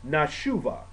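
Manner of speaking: "Nashuva" said alone, na-SHU-va; careful single "Nashuva"; Hebrew word. Shown as a demonstration. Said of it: "Okay, excuse me".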